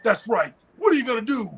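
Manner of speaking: hyped-up wrestling promo, light imitation; wrestler promo voice. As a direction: hype it like a wrestler. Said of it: "In the words of the holster".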